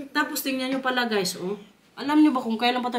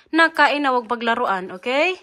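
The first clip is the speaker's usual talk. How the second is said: firm scolding; 7 dB louder than usual. Real, not acted. Scolding child at meal.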